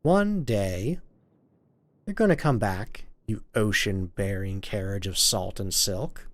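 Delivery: measured, wistful monologue; story narration. Acted. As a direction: read it as a longing vow, with pauses. Reads game monologue aloud.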